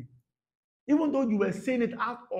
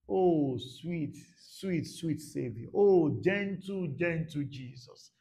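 tender; 4 semitones lower, much slower than usual. Acted. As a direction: linger lovingly on each word. Tender praise of gentle Jesus.

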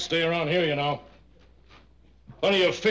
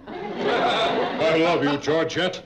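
laughing, slow; much slower than usual. Acted. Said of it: "You want me to say it again?".

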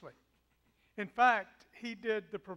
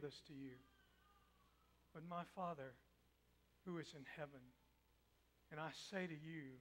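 much softer, lower blessing; gentle; 4 semitones lower, 8 dB quieter than usual. Acted. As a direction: bless him tenderly. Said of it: "feel the gentleness".

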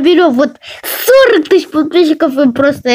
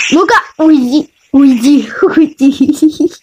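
shooing; slower than usual. Real, not acted. Shooing intruder while on toilet.

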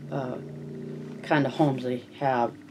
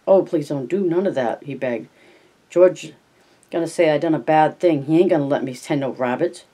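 frightened begging; 3 dB louder than usual. Acted. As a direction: beg in fright, near tears.

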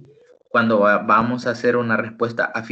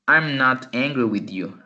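slow model answer. Shown as a demonstration. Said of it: "yo voy a contestar".

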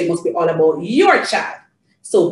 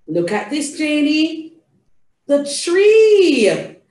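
animated storytime voice with drawn-out key words; theatrical reading to a child; 3 semitones higher, slower than usual. Shown as a demonstration. Showing Janie the tree, theatrical. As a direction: point out pictures to a toddler, stretching the nouns.

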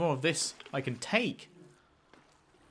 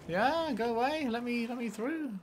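mock pleading; 8 semitones higher than usual. Pleading with enemies.

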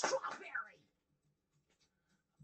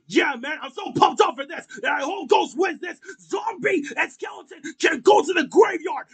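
pumped-up Knuckles voice; 6 dB louder, faster than usual. Acted. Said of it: "you're too excited for this".

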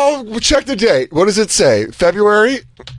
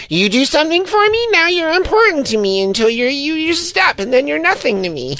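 much higher falsetto LA snob voice; mock LA type; 12 semitones higher than usual. Mocking LA people for the friends, high falsetto. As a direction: sneer it in a high put-on voice. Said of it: "Like, fucking".

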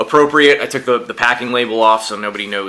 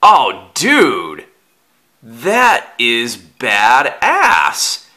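excited; 3 semitones higher, 5 dB louder, much slower than usual. Real, not acted. Opening a surprise gift package.

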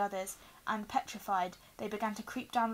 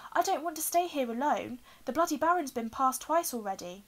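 higher, louder, plaintive voice; anxious pleading; 5 semitones higher, 5 dB louder than usual. A narrator's reading. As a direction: plead plaintively, pitched well up. Neville pleads not to stay alone.

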